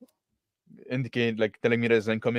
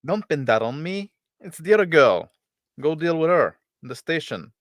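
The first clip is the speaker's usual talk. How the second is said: defensive; 5 semitones higher, 4 dB louder than usual. Acted. Pilot deflects blame to villain.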